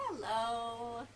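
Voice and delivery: sweet, friendly hello; gentle, drawn-out nice greeting. Shown as a demonstration. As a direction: greet them as nicely as you can. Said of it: "as nicely as we can".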